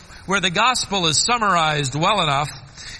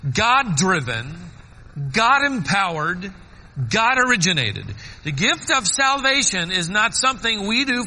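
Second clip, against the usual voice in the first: high, punched phrases with pauses; rhythmic sermon cadence; emphatic preaching; 3 semitones higher than usual. Acted. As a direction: drive each point home from the pulpit. Preaching the eight points.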